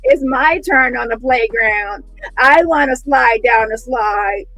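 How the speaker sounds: mildly whiny begging plea; lightly voiced pleading man asking for a turn; begging Dusty. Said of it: "old Dusty was asking for a turn".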